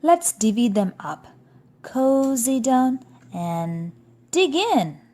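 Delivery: fast, rising eager invitation. Acted. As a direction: coax them to dig in. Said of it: "badger says with a grin".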